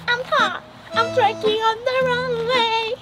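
ordinary delivery

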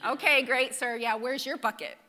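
dry mocking reply, laughing at the end; mock-polite sarcasm with a laugh; sarcastic. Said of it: "hear the sarcasm in her voice".

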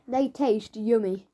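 forced yummy. Acted. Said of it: "he's pretending".

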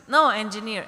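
loud, curt contradiction; arguing back. Retold or imitated. Husband contradicting his wife about their unborn child, loud retort. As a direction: bark back the single word of disagreement. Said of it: "they keep on arguing with each other".

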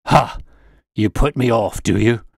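loud, scornful bark of anger; enraged old man snapping back; angry outburst. Acted. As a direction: roar it at the calm detective. Angry old man shakes his crop.

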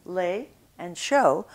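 slow, careful "lait" and "chaud"; a slow teacher's model of the French vowels. Shown as a demonstration. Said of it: "contrast these two French words".

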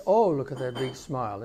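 loud opening "Oh", tune falling away through "smile"; voice going down. Retold or imitated. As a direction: imitate a mother's delight, letting the pitch sink. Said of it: "her voice goes down a little bit".

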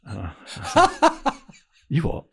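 words squeezed through laughter; laughing while talking. Real, not acted. Retelling the dog handler's answer, still laughing. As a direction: keep laughing as you get the words out.

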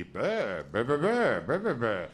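mock radio sidekick babbling bah bah; a goofy radio sidekick's laughing babble; morning zoo laughing guy. Shown as a demonstration. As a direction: ham up the laughing guy with nonsense sounds. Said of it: "if I were to do an impression of that".

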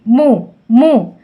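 ము held very slowly to bring out the ఉ; stretched syllable. Shown as a demonstration. Teacher isolating a syllable before asking the sound, slow. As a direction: draw out ము slowly and evenly. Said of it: "ఏం శబ్దం వినిపించింది".

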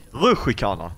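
"Rutschkana" pronounced ruschi-kana. Shown as a demonstration. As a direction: put a short i before kana in "Rutschkana". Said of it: "Inte som du, ruschi".

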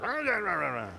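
a hammed-up burst of ranting noise; mock yelling. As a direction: mimic going right back to yelling, half in fun. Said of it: "you hang up and you're back".

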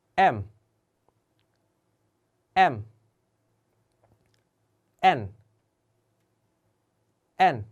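Indonesian alphabet read slowly and clearly; letter names read aloud. Shown as a demonstration. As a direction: read each letter twice for repeating. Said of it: "같이 따라해주세요". (인도네시아어 알파벳 또박또박 읽기)

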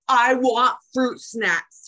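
put-on grousing toddler. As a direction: insist like a cranky toddler. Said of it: "he grouses".

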